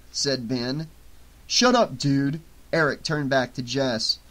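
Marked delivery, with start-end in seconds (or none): 1.5-2.4 a loud, irritated snap; annoyed. Acted. Eric shuts up his friend Ben, annoyed and loud. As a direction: shut him down, fed up with the joke.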